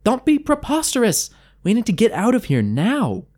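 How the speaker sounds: scolding in a frantic rage; apoplectic. A narrator's reading. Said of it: "as apoplectic as Gel had ever seen her".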